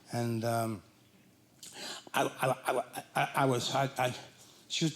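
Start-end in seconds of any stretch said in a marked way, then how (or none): 2.1-4.1 nervous stammering on I; stutter. Retold or imitated. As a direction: stammer out I over and over. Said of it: "I stutter".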